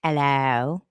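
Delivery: low, insistent meows, each rising at the end; talking-cat meow. Retold or imitated. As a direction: keep meowing like a cat demanding water. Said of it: "he's like".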